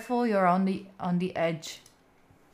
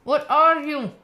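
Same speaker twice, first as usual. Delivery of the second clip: surprised; 5 semitones higher, 8 dB louder, slower than usual. Real, not acted. Reacting to something on screen.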